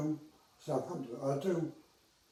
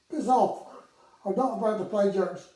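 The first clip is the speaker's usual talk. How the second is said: irritated brush-off; 5 semitones higher, 7 dB louder than usual. Retold or imitated. Brushing off a prank call.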